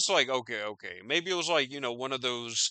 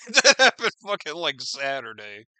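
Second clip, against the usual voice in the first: laughing; 6 dB louder than usual. Real, not acted. Vlogger repeating the date to viewers, laughing. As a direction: laugh out "That happened fucking".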